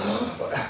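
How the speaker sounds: a quick, startled mock intake of breath; imitating a stunned viewer's gasp. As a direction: gasp as if caught off guard. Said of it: "You're like".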